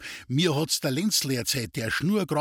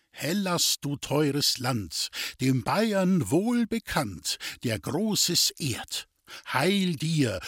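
slow, measured hymn text; stately, slow patriotic poem; solemn verse recitation; slower than usual. Acted. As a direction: declaim it line by line, stretching the words.

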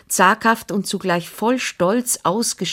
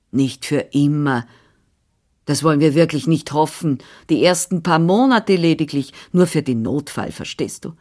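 a lightly voiced bustling older woman; brisk, busy housekeeper voice, only lightly put on; Frau Anna, brisk nurse. Nurse answering the father, lightly voiced and brisk.

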